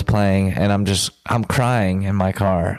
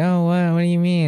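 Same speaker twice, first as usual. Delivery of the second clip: quoting her; 7 semitones higher, faster than usual. Retold or imitated. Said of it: "she's like".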